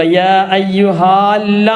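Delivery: "യാ അയ്യുഹാ ല്ല" with the "ha" held long before the doubled l; wrong reading demo. Shown as a demonstration. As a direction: demonstrate the misreading "യാ അയ്യുഹാ ല്ല", vowel stretched. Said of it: "എന്ന് വായിക്കൂല".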